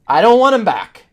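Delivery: exasperated fan declaring it over; emphatic refusal. Real, not acted. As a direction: slam the door on it for good. Fed-up rant about returning characters.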